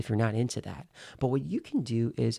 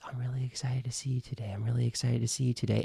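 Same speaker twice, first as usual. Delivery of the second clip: fast on one breath; faster than usual. Shown as a demonstration. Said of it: "then say those words".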